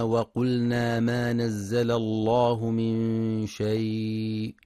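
slow melodic tartil chant; Quran recitation. Acted. Teacher recites a verse for listeners, measured chant.

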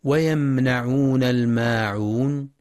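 ويمنعون with a held, medium-length م; slow tajweed recitation; Quran recitation. Shown as a demonstration. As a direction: recite ويمنعون slowly, letting the م ring briefly. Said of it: "صفة التوسط في الميم الساكنة".

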